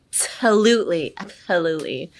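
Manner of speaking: ABSOLUTELY flowing from a sneeze-like ABSA into LUTELY; easy flow. Shown as a demonstration. Teacher showing how easily it flows, smooth ABSOLUTELY. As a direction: let ABSOLUTELY run easily, LU stressed. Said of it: "how easily it should flow".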